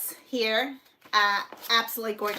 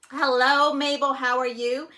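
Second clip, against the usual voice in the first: loud greeting; 2 semitones higher, 6 dB louder than usual. Real, not acted. Greeting live chat viewer.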